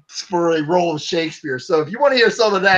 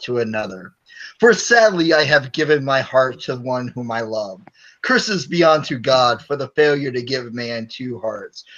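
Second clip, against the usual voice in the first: Shakespearean recitation; 5 semitones lower than usual. Acted. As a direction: recite it like Shakespeare in an American accent. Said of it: "the best Shakespearean line I got".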